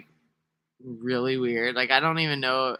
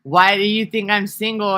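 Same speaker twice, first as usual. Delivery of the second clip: higher, louder put-on voice; switched-up voice; 7 semitones higher, 7 dB louder than usual. Shown as a demonstration. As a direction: flip into a different talking voice, up and loud. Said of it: "'Cause I can switch up how I talk".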